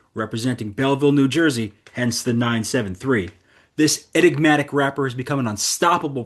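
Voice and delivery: polished radio announcer read; announcer intro. Acted. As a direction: hype up the guest like a host. Introduces guest over music.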